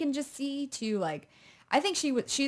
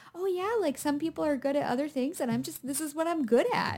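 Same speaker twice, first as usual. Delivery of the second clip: higher, wide-eyed earnest mock sincerity; earnest puppy dog; 6 semitones higher than usual. Imitating the hero's earnest boast to his lover, mock puppy-dog sincerity. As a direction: say it like an innocent puppy. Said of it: "very earnest puppy dog eyes".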